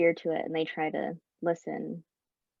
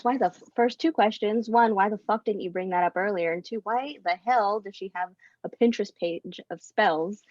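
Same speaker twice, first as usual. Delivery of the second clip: exasperated rant; 3 semitones higher, 4 dB louder than usual. Acted.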